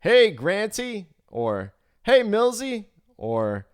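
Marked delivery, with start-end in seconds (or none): 0.0-1.1 loud, high, slow South African hail; shouted South African greeting. Retold or imitated. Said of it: "he would shout out something like". 2.0-2.9 shouted South African greeting. Retold or imitated. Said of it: "he would shout out something like".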